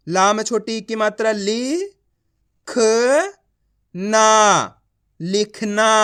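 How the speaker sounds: ली, ख, ना singly with gaps, then लिखना as one word; teacher's blending drill with a strong long ना before लिखना; letter-by-letter reading. Shown as a demonstration. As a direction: sound out लिखना piece by piece. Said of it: "एक एक अक्षर का उच्चारण कर रहा हूँ".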